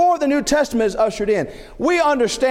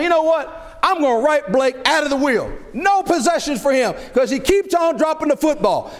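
retold indignation in a higher pitch; mock angry; 6 semitones higher than usual. Father writing Blake out of the will, mock angry. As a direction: lay down the punishment, mildly worked up. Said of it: "I'm angry. I'm mad. I say".

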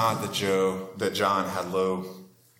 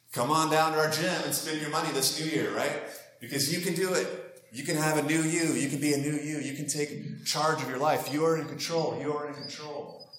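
slightly hammed-up, higher-pitched gym promo; gym advertisement pitch; 4 semitones higher than usual. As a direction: pitch it like an upbeat fitness ad. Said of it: "that's really effective advertising for a fitness gym".

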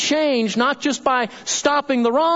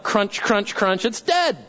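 comic exclamation; slower than usual. Acted. Pastor describing scorched grass to congregation, comically emphatic. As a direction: act out dead grass, popping up at the end.

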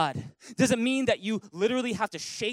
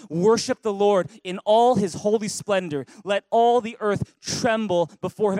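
louder, slow congregational read; 6 dB louder than usual. Real, not acted. Preacher leads the church reading a psalm aloud, loud. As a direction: read the verse out loud together. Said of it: "Read it with me in a loud voice".

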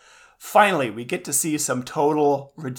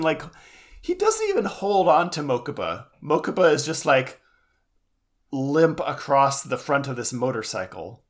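ordinary talk

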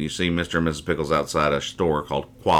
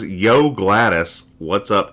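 slow, drawn-out Yo, a little louder; rude neighbor greeting; 4 semitones higher, 6 dB louder, slower than usual. Retold or imitated. Neighbor kid barging in with a slow yo. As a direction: greet her like a brash kid. Hattie greets Gladys rudely.

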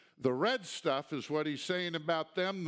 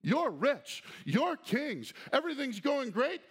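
sarcastic; 7 semitones higher, 3 dB louder than usual. Acted. Repeating the sarcastic flattery.

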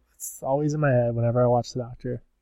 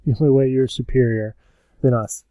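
louder, measured Dalek delivery; imitated Dalek boast; 2 semitones higher, 5 dB louder than usual. Dalek boasting to the Cybermen, imitated Dalek. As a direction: declare it stiffly as a villainous Dalek. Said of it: "And they're like".

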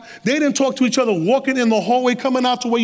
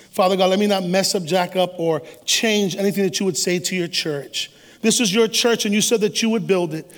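prayer; 3 semitones lower than usual. Acted. Pastor leads opening prayer.

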